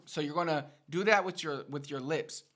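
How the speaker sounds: ordinary delivery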